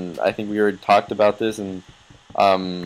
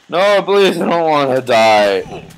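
pleading; 3 semitones higher, 5 dB louder, slower than usual. Real, not acted. About to die in game.

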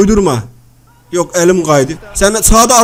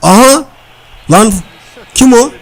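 excited outburst; 3 semitones higher, 6 dB louder than usual. Real, not acted. Foul on screen.

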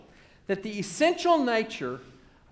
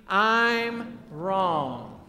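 slow, drawn-out confession; leading a recitation. Shown as a demonstration. Preacher leading the congregation to say it with him, slow and deliberate. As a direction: give each word room to be repeated.

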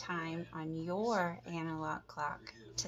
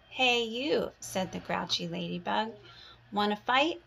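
grouchy challenge; 3 semitones higher, 4 dB louder than usual. Acted. Grouchy ladybug challenges yellow jacket.

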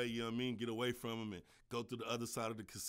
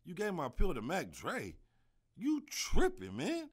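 high-pitched, disbelieving outrage, much higher; outraged disbelief; 7 semitones higher, 5 dB louder, slower than usual. Retold or imitated. Narrator yells at his friend over the lost pill, outraged and high. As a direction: squeal it like you can't believe he did that. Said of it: "I was like".

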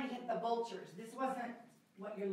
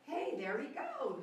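higher, drawn-out hyena line; calling out; 7 semitones higher, slower than usual. Shown as a demonstration. Director showing a hyena spotting Simba, high call. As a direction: point him out in a high, slow call.

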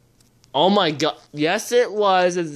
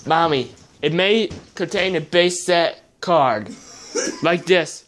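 laughing through the words. Real, not acted. Telling mom about a base set card, laughing. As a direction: giggle with delight.

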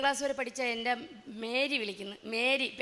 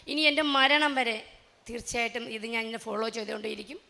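solemn vow; 3 dB louder than usual. Real, not acted. Solemn vow to keep going.

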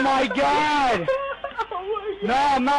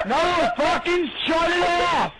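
higher, wheezing laughter-yells; gasping for air while shouting; can't breathe from laughing; 4 semitones higher than usual. Real, not acted. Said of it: "I can't fucking breathe".

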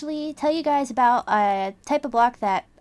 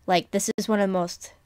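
smiling voice. Real, not acted. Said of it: "you can hear the smile in my voice".

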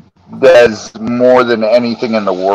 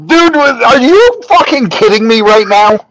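higher-pitched, acted-out disbelief; incredulous; 8 semitones higher than usual. Replying to friend's gloomy industry prediction, mock incredulous. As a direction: replay your exasperated disbelief.

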